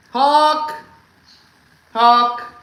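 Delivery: loud excited one-word shout; imitating a husband's excited hawk yell; mock hawk shout. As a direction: yell it like spotting a bird. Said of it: "Never complete sentences".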